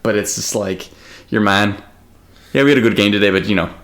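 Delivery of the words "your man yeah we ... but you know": put-on Irish accent. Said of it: "it's, like, a lot Irish".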